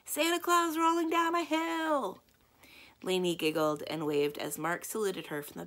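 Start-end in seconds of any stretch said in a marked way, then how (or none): 0.0-2.2 high, slow, loud bellow. Acted. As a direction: boom it out from the moving truck. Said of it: "Mark bellowed the answer".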